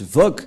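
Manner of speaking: Vogue with a V sound; European pronunciation. Shown as a demonstration. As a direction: say Vogue starting on a clear V. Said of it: "ils prononcent".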